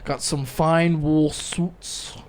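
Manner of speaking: put-on slow, drawn-out Minnesota accent; thick Minnesota accent. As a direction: stretch every vowel the Minnesota way. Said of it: "this guy's really thick Minnesota accent".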